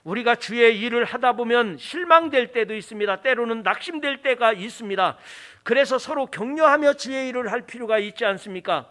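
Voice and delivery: projected pulpit exhortation; earnest preaching. Real, not acted. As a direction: appeal firmly to the congregation.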